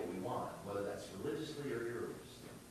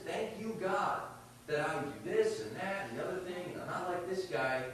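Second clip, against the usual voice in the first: a touch of a proud Pharisee, higher and louder; smug Pharisee; 4 semitones higher, 5 dB louder than usual. Acted. Pastor voicing the Pharisee to his podcast cohost, lightly smug and raised. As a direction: boast to God like you're better than him.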